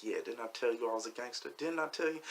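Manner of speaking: hushed taunt, voiced, not fully whispered; retold whisper in the ear. Trash-talking into the choked man's ear, hushed gloating. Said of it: "I'm whispering this fool's ear".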